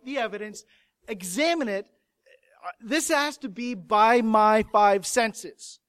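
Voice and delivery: stubborn, firmly stressed insistence; insistent doubt. Acted. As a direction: dig in and demand proof. Voicing Thomas's firm refusal.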